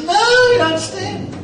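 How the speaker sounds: a hammed-up Aussie waiter correcting you; the waiter Bruce cuts in, drawn-out and high; waiter insisting. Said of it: "Bruce looks at me and says".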